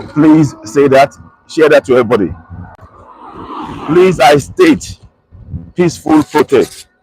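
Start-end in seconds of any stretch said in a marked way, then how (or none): 5.7-6.9 "peaceful protest" set apart and stressed; emphatic PEACEFUL PROTEST. Real, not acted. Broadcaster stating protesters' rights, stressing "peaceful protest". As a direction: press firmly on "peaceful protest". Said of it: "I am emphasizing the word".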